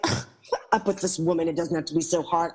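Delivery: mild scoff, brushing the advice off; a touch of snooty disdain; dismissive attitude. Retold or imitated. Narrator mocks her younger self dismissing the woman, lightly scornful. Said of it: "That kind of attitude".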